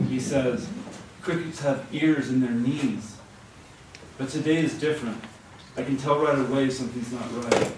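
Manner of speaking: animated literary reading; projected, storytelling delivery; story narration. A narrator's reading. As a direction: read the story out to a live audience. Reads a story aloud.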